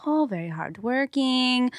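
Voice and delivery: approving driver mimicked in a Middle Eastern accent. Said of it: "I can't even do the accent".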